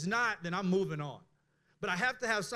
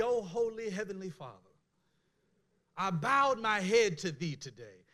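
lightly mocking churchy prayer voice, slowed; hint of a pompous pious prayer; stiff formal prayer. Preacher mocking a stiff prayer to God, mock-formal. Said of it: "my prayer should not be".

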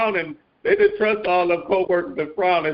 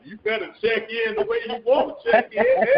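laughing; 4 semitones higher than usual. Real, not acted. Laughing encouragement to sister.

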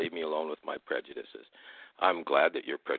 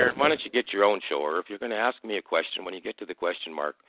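irritated retort, starting high and loud then easing; real irritation, pitched up at the start; angry; 4 semitones higher, 8 dB louder than usual. Real, not acted. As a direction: cut in sharply with raised voice, annoyed at the caller. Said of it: "why are you so angry".

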